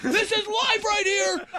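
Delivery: high, slow, creepy party voice; creepy drunk voice. Retold or imitated. Drunk alone in the man cave, cheering himself in a creepy high voice.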